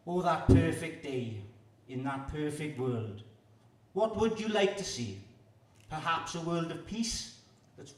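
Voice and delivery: measured spoken-word poetry delivery; poem recital. Acted. Poet performing for a festival crowd, earnest recital. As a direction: perform it like a live poetry reading.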